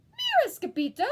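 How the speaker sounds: howl. Acted. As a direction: call out to him. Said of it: "howled Don Diego".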